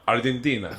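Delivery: soft, lightly put-on Argentinian accent. Shown as a demonstration. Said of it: "I'll do an accent".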